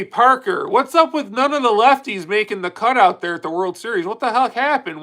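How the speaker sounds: ordinary delivery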